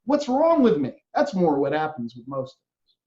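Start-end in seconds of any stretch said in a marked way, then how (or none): 0.1-1.0 regretful self-reproach. Pretend. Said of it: "We go to bed at night going".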